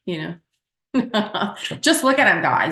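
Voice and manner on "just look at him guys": teasing gush. Real, not acted. Teasing about the host.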